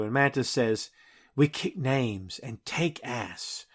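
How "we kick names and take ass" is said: deadpan. Retold or imitated. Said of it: "It's very subdued. It's very understated".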